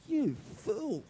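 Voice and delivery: loud, high scolding; retold rebuke. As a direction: chew out the foolish husband. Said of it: "And I go".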